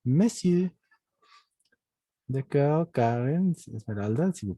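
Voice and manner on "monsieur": monsieur pitched up, ending on the vowel; silent R. Shown as a demonstration. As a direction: model monsieur high, dropping the R. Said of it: "La R no se pronuncia". (monsieur agudo, sin pronunciar la R)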